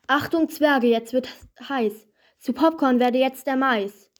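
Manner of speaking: mild call across the field; calling out loud. Acted. Virius calls out to the dwarfs at the cornfield, mildly loud. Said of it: "sprach laut".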